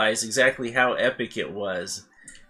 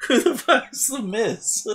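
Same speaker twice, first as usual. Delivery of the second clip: retold incredulous retort; 11 semitones higher than usual. Retelling own retort after impression.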